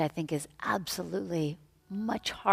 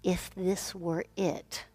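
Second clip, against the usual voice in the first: guided meditation; 4 dB quieter than usual. Real, not acted. Yoga teacher offering words to say in silence, meditative.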